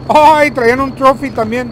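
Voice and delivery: high, loud startled cry; surprised shout. Real, not acted. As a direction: burst out in surprise, then slow. Surprise at loot found.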